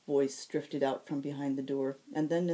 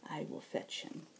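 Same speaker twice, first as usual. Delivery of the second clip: soft murmur; 9 dB quieter than usual. Acted. Ethne quietly leaves.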